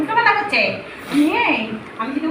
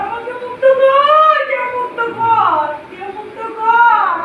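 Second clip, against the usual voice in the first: loud, slow, drawn-out cry to be set free; slow loud wail of a trapped spirit; anguished pleading; 3 semitones higher, 3 dB louder, slower than usual. Acted. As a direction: beg loudly and slowly for release. Possessed woman begs for release.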